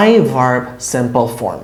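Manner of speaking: I verb simple form said very slowly; teacher dictating a grammar formula slowly; slow dictation. Shown as a demonstration. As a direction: spell out the formula slowly, word by word. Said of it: "sentence স্ট্রাকচারটা হচ্ছে".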